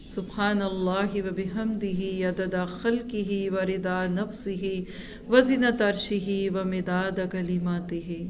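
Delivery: measured, devout chanting of the Arabic words; Arabic tasbih recitation. Real, not acted. Teacher recites the tasbih for her students, devout and measured. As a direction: recite it as a prayer, each word weighed.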